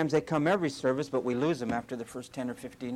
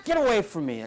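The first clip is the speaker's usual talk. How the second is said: laughing shoo; 5 semitones higher, 4 dB louder than usual. Retold or imitated. Pushing away the loving dog.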